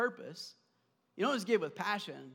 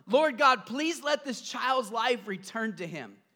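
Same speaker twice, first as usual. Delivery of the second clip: crying out to the Lord; 2 semitones higher, 5 dB louder, slower than usual. Acted. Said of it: "he cries out to the Lord".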